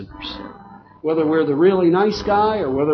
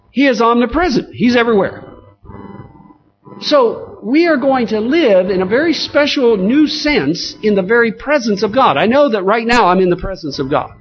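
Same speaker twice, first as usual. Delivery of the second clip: raised pitch, forceful sermon delivery; emphatic preaching; 7 semitones higher, 5 dB louder than usual. Real, not acted. Preacher telling the congregation God will live with man, emphatic preaching. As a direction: drive each phrase home to the congregation.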